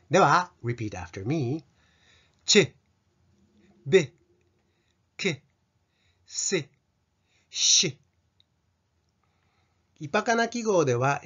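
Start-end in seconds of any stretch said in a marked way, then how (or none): 2.4-8.0 "ち、 べ、 け、 せ、 し" each as one short sound with lax i; lowered-tongue short vowel. Shown as a demonstration. Teacher saying repeat after me, "ち、 べ、 け、 せ、 し" with lowered tongue. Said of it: "舌を下げて発音するようにしてください".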